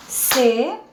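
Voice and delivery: "Cepillo" in three spaced beats, ce... pi... llo; separated syllables. Shown as a demonstration. Teacher pronounces it first for counting, separated syllables. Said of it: "Entonces, separémoslo".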